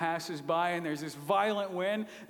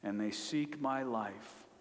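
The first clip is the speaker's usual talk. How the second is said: self-pitying lament; 3 semitones lower, 3 dB quieter than usual. Retold or imitated. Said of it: "he has a different tone".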